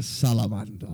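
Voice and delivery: lightly British salamander; attempted British, not deepened; British accent. Shown as a demonstration. Player retrying salamander for his co-host, British accent. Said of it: "I'm doing British".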